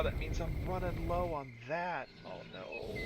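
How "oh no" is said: jumped-up high squeak of dismay; squeaky oh no. Real, not acted. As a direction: squeak it in alarm. Sudden alarm.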